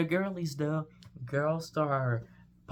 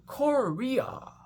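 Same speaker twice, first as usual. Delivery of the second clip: excited announcement; 10 semitones higher, 4 dB louder than usual. Pretend. Announcing coin reveal.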